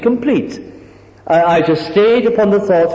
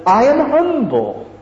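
higher, slow self-satisfied I am humble; mock humble declaration; 7 semitones higher, slower than usual. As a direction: proclaim I am humble with slow smug piety. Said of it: "False humility has always got to be conscious".

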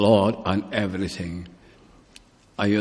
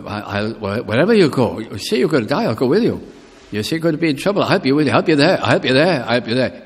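Peter boasting; 4 semitones higher, 5 dB louder, faster than usual. Retold or imitated. Peter's big promises retold.

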